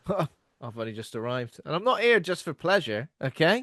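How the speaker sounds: pompous, ending stretched out; mock self-important. Friend mocking Andy claiming business, pompous. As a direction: insist grandly on business. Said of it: "mimics Andy's reply to text".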